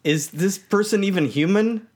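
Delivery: a hint of a baffled princess; voiced princess. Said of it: "She's like".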